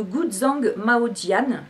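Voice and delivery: slow, careful attempt at a Chinese accent on Guzhang Maojian; clumsy Chinese accent. Shown as a demonstration. Tea vlogger naming a Chinese green tea, apologising for her accent, in a clumsy Chinese accent. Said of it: "excusez mon accent chinois".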